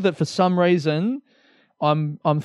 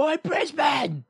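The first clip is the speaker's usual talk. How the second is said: higher, slow mock call at the city; playful mock shout, much higher; mock yell out window; 10 semitones higher, 6 dB quieter, slower than usual. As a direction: pretend to holler out the window. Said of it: "I just yell out the window".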